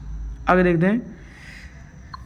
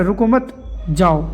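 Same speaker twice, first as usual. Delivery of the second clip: रुको मत as one group, then जाओ set apart; pause after मत; slower than usual. Shown as a demonstration. Teacher showing how the meaning changes, pause after मत before जाओ. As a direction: hold the break until after मत. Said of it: "मायने और मफहूम ही बदल जाता है".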